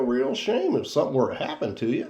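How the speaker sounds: lightly voiced Goofy threat; mild Goofy menace; a hint of Goofy. Host's first take of the subscribe threat, lightly in Goofy voice. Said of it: "Why does your Goofy sound so Southern".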